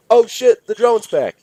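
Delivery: very high, loud panicked shout; startled yell. Acted. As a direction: scream it in sudden fright. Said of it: "yelled Dan".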